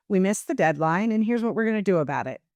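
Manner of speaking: firm and decisive. Shown as a demonstration. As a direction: own it, no hedging. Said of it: "projects so much more confidence".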